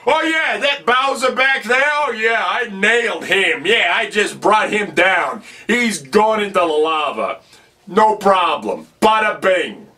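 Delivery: boastful bravado. Retold or imitated. Mario boasts to the princess, cocky bravado. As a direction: brag like it was nothing. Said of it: "Added the bada bing in there".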